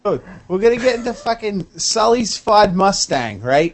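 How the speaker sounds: a lightly put-on Boston accent, grumbling; a Revere Beach guy with a light Boston accent, griping about freestyle; mock Boston accent. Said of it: "who the fuck talks like that?".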